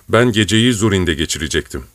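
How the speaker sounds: plain reading voice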